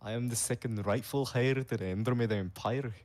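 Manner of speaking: put-on heavy Scottish-Slavic mixed accent; grand introduction in a wobbly put-on accent; put-on princess accent. Princess announcing her titles to the court, in a put-on accent. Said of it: "The whole, the whole time I spoke with this accent".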